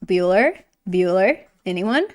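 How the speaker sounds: lightly voiced Bueller roll call; a hint of the deadpan Bueller call; Bueller joke. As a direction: drone Bueller like the bored teacher. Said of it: "making the Bueller joke".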